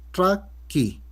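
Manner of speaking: traqui with a retroflex tr, said on its own; retroflex demo. Shown as a demonstration. Teacher models the Huanca word for foot with a retroflex tr. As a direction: model traqui with the tongue curled back on the tr. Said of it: "utiliza el retrofleja".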